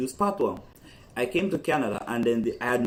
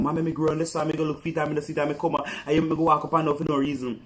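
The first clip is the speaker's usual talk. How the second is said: lightly voiced Jamaican child's patois, a bit higher; 4 semitones higher, faster than usual. Mother retelling daughter's patois story, a hint higher. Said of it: "but she went so Jamaican".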